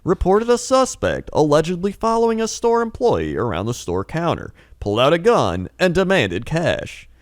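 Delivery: mock news anchor read; newscaster voice. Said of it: "It's not a newscaster voice".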